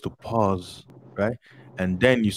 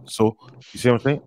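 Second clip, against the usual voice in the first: fast demo; 3 semitones higher, faster than usual. Shown as a demonstration. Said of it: "check this out".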